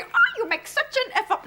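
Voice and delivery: high, sugary French-accented mock praise; mock the locals' fake delight; mock gushing Parisians. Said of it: "they're going to say".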